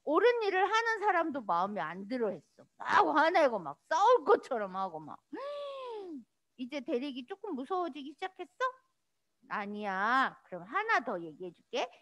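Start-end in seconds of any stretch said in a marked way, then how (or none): 5.3-6.2 sharp high gasp of shock; mock horrified gasp. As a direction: gasp as if frightened.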